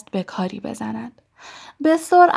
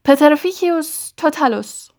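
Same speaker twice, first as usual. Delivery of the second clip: shouted spell; 7 semitones higher than usual. A narrator's reading. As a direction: fling the curse out in a shout. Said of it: "فریاد زد".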